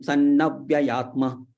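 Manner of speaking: sannavyayatma said slowly with the vowel not yet lengthened; a slow first try at sannavyayatma, before correcting it; short vowel take. Shown as a demonstration. Teacher tries the word before correcting himself, slow.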